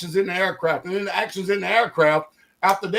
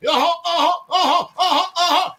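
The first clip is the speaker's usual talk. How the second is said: mock agreeing; 7 semitones higher than usual. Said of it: "they're co-signing".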